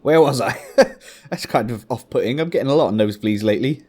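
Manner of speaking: talking with a tissue up the nose; nose plugged with tissue; tissue up one nostril. Real, not acted. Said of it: "shoving a piece of tissue up my nose".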